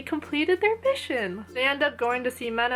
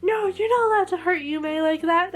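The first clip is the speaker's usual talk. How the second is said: higher-pitched mock indignant protest; Ranta, not happy; 7 semitones higher, 4 dB louder than usual. Imitating a fighter defending his hurt teammate, mock indignant. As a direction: put on a protective outburst, pitched up. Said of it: "Ranta not happy with that".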